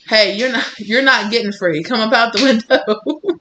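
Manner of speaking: a touch of scolding the cat; talking to the cat. Real, not acted. Vlogger lightly scolding her cat clawing the screen. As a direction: call the cat off the window.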